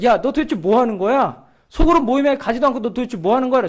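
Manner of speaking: mildly annoyed telling-off, acted out; retold scolding. Pastor takes him for a slacker skipping group meeting, retold scolding. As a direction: imitate a pastor rebuking a slacker. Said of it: "저한테 뭐라 그런 거예요".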